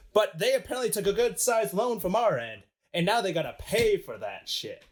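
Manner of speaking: high, blustering mock-American banker; American accent. Banker with cigar and brandy demands his money, high American accent. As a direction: hold forth like a hammed-up American fat cat. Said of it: "I have an American accent".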